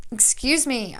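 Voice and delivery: hiccuping between words; hiccups. Real, not acted. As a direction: talk through the hiccups. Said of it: "I have the hiccups now".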